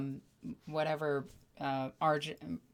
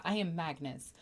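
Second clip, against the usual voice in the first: grand villain speech; 5 dB louder than usual. Retold or imitated. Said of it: "That's, that's Magnus".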